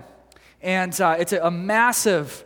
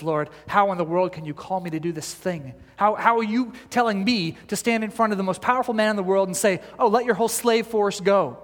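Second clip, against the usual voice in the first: railing at God. Retold or imitated. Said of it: "railing at God at his lack".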